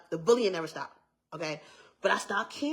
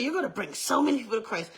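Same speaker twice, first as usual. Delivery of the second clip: higher, hurried retold proclamation; excited prophecy; 4 semitones higher, faster than usual. Church lady prophesying over young girl, excited prophecy. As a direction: gush it out like good news. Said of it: "She was excited".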